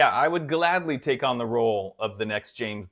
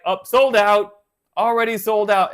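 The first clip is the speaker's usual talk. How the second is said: mock fan complaint; 7 semitones higher, 7 dB louder than usual. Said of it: "they go to the website".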